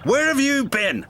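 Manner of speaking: snapped. A narrator's reading. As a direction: bite the question off at him. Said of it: "snapped Cranky".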